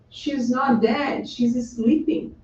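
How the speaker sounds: slow, deliberate quoted assurance; very clear statement. Retold or imitated. Jesus corrects the crying mourners, slow and very clear. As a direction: spell it out slowly, word by word. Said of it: "he's been making very clear here".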